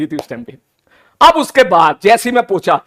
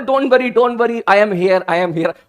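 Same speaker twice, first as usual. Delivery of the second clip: soothing reassurance; much slower than usual. Retold or imitated. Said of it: "बड़े सुकून वाले अल्फाज".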